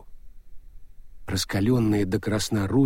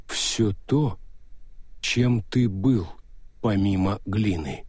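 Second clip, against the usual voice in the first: Death's voice; 2 semitones lower, slower than usual. Acted. Death answers.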